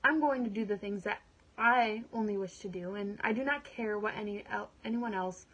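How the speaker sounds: earnest monologue, anger building to resolve; dramatic monologue. Acted. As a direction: perform it like a woman taking control of her life. Performs her dramatic monologue.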